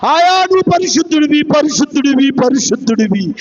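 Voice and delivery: repeated cry, stepping down in pitch; mild chant-like imitation of angels; angels' cry retold. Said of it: "అని కేకలేస్తున్నాయి దూతలు".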